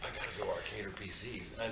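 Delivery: hushed aside to teammate; whispering. Real, not acted. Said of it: "Why are you whispering this?".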